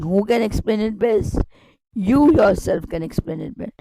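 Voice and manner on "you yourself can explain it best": "You yourself" pushed up front, the rest relaxed; emphasis on YOU YOURSELF. Shown as a demonstration. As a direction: press on "You yourself" to show who explains. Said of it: "I'm trying to put some emphasis".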